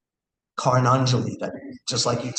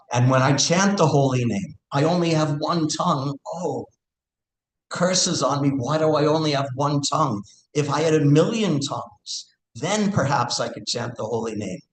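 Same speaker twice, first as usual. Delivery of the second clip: raised pitch, acted devotional yearning; impassioned lament; 4 semitones higher than usual. Teacher voices a devotee cursing her one tongue, impassioned lament. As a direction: lament it ardently, pitch lifted.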